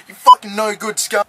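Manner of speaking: loud, angry insult at the ref. Real, not acted. Insults the referee.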